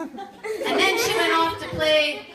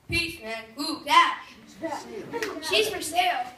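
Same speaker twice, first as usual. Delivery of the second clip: hippie voice; 3 dB quieter than usual. Acted. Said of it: "a weird hippie".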